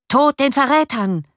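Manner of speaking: mild, high-pitched mob cry; a restrained version of a crowd bellowing; mob's roar. A narrator's reading. The mob outside yells at the traitors, mild roar. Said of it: "brüllte der Pöbel".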